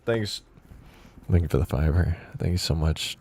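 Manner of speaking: loud grateful thanks. Real, not acted. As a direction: thank them loudly.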